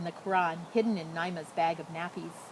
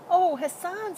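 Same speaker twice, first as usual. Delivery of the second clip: sad; 11 semitones higher, 4 dB louder, slower than usual. A narrator's reading. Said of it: "he heard the sadness in her voice".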